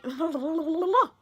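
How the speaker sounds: tongue-tripping "la-la-la" gibberish; tongue-tied babble. Real, not acted. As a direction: babble nonsense after fluffing a word. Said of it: "I can't speak".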